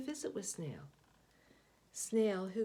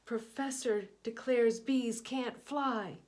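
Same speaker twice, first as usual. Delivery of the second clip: headline read; 4 semitones higher, 7 dB louder, slower than usual. A narrator's reading. Reading a headline aloud.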